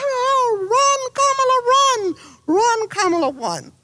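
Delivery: high, held-back mock scream of encouragement; retold excited screaming. Friend cheering on a candidate by phone, high mock screaming. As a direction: cheer her on in a high voice, dropping on the last word. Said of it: "And I was screaming".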